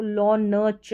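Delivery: slow, split into लॉ, न and च; sounded out. Shown as a demonstration. Teacher sounding out लॉन्च for students slowly. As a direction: separate each sound. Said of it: "न का sound पूरा नहीं देंगे".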